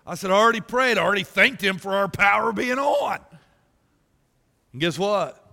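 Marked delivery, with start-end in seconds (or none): 0.3-3.2 emphatic retort. Retold or imitated. Retorting to wife about praying.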